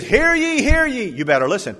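high, loud mock crier's call; town crier. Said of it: "the puppets have a town crier".

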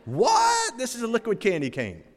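squealed high what, then a fast gush; mock amazement. Customer tasting a peppermint shake, mock amazed squeal. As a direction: gush like a thrilled first taste.

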